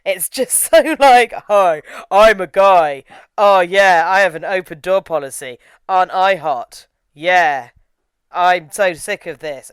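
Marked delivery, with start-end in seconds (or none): 1.5-9.7 slow, loud mock macho guy; lazy, cocky hunk parody; mock dumb hunk. Mocking the lead actor's persona.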